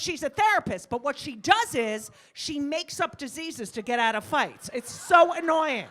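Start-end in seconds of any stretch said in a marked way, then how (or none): 4.7-5.9 slow, loud and exasperated; exasperated shout. Real, not acted. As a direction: shout out the annoyance. Comic complaint shouted.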